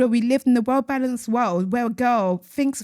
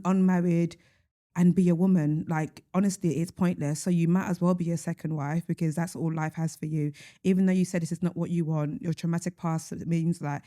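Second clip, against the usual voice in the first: deadpan mock advice; dry, understated sarcasm; sarcastic; 3 semitones lower, 3 dB quieter than usual. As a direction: give awful advice as if sincere. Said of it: "I hope you hear the sarcasm".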